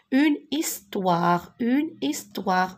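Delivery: "Une histoire" slowly, every syllable drawn out; slow sounding-out. Shown as a demonstration. Teacher modelling a word for pupils, slow sounding-out. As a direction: stretch "histoire" out, his then toire.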